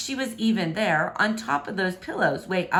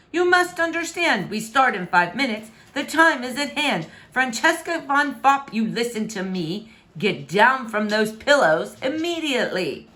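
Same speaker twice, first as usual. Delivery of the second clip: commanding, louder; stern; 4 semitones higher, 4 dB louder than usual. Acted. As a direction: order her down firmly. King orders daughter down.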